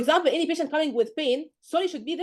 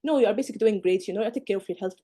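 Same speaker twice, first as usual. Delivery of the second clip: calm professional reassurance; 3 semitones lower than usual. Shown as a demonstration. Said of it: "you can tell her".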